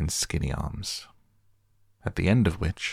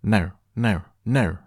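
put-on loud, short baby shouts, rising in pitch; shouting; 4 semitones higher, 5 dB louder than usual. A narrator's reading. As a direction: shout each word as a small child's protest. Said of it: "Sunny shouted".

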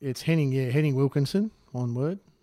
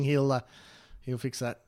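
ordinary talk, nothing marked

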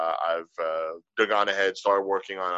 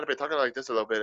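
lighter, quick Irish lilt, pitched up; Irish accent; 3 semitones higher, 3 dB quieter, much faster than usual. Shown as a demonstration. Showing the tipsy slide's starting point, Irish accent. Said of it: "my Irish started turning into Scottish".

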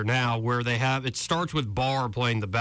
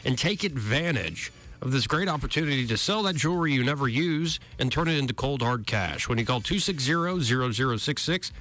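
lively sponsor read by the show's host; radio ad read. Real, not acted. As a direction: sell it like a local radio spot.

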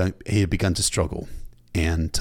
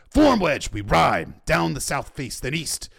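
high shouted battle commands; roared orders; 6 semitones higher, 4 dB louder, slower than usual. A narrator's reading. Commander forming up riders to break out, shouted orders. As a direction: call out each order forcefully.

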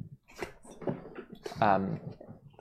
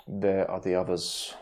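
deep gravelly voice; 3 semitones lower, 3 dB quieter than usual. Acted. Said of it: "Dimitri's deep, gravelly voice".

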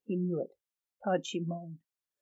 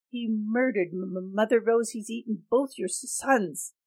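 higher, stuttering, loud in places; stammering outrage; 3 semitones higher, 4 dB louder than usual. Acted. Young man telling Rose of Tanchi's crimes, stammering and higher. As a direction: trip over the words in anger.

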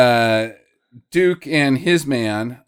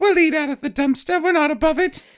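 begging waif. Retold or imitated. Begging street kid voice.

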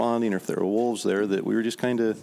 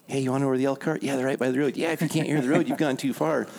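pitched-up mock drunk voice; 5 semitones higher, faster than usual. Hunters mock the drunk's advice in the truck. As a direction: parrot the bum for laughs. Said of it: "we mocked that for the next half hour".

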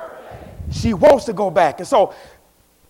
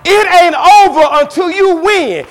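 higher and louder, full preaching force; preached louder; 8 semitones higher, 6 dB louder than usual. Shown as a demonstration. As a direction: say it again, now shout it to the church. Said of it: "You want me to say it again?".

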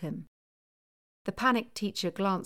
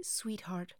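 whispered; 7 dB quieter than usual. Acted. Mum hushes argument over child.

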